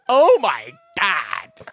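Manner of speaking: high, loud, slow horrified gasp; shocked girl. Retold or imitated. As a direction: play her shocked, drawn out. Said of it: "took her mouth off ... and went".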